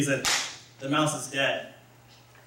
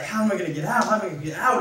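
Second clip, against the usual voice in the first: raised, pleading cry of a trapped mouse; lightly hammed-up panic, voice pitched up; mock panicked plea; 4 semitones higher, much faster than usual. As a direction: play the stuck mouse begging to get free. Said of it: "he starts crying for help".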